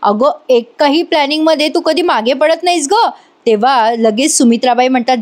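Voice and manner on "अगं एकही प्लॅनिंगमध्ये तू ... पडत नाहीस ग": mock praise. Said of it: "मोठ्याने टाळ्या वाजवत म्हणते".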